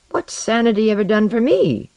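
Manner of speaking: mocking, lifted pitch. A narrator's reading. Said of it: "he said, mocking".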